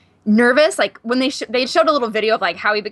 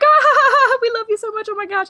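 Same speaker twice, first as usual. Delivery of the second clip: high, laughing mock squeal; gushing fangirls; 12 semitones higher, 4 dB louder than usual. Women at the bar answer their favorite star, gushing. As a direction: imitate adoring fans squealing through laughter.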